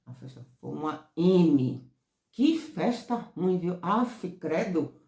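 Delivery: loud, slow and drawn-out disgust. Shown as a demonstration. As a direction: pull a face at the awful party. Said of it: "não sei o que, então". (desdém exagerado e arrastado)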